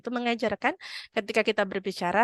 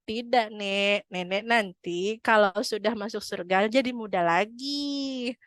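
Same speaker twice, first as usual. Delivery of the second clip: gentle reassurance; slower than usual. Acted. Prophet reassures weeping grandmother.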